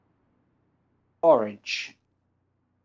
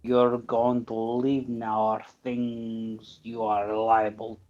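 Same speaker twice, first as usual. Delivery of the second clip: Russian voice. Acted. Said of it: "I did a Russian voice".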